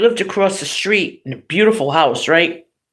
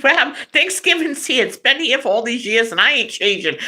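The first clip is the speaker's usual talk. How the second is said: papa voice; 5 semitones higher than usual. Retold or imitated. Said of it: "I do the papa voice".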